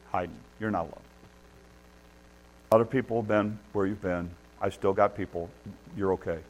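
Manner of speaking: low, soft, gentle reassurance; reassuring God. Acted. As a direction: quietly comfort someone who feels alone. God reassures despairing Elijah in retelling.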